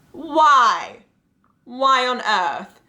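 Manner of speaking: high, drawn-out mock disbelief; exaggerated, incredulous acted plea; baffled dismay. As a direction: wail it slowly in hammed-up bafflement. Acted dismay at marriage proposal.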